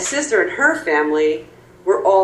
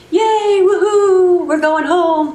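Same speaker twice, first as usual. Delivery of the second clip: high-pitched celebratory whoop; mock cheering; 12 semitones higher, 4 dB louder, slower than usual. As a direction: cheer like relieved passengers, drawn out. Passengers cheer as bus restarts.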